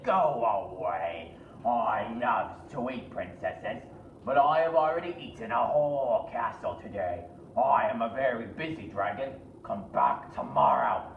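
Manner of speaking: a big bragging dragon brushing her off; hammed-up dragon.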